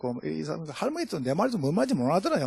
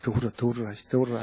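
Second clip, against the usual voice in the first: inner voice, laughing; 5 semitones lower, 5 dB quieter, faster than usual. Retold or imitated. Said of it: "내가 속으로".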